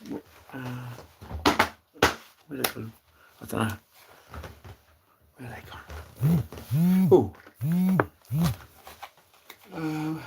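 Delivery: slow whispered search. Real, not acted. Looking for his cigarettes, whispering. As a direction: mutter to yourself while searching.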